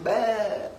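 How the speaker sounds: mock sheep "baa"; sheep bleat. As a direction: bleat like one of the flock. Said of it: "we're just sheep".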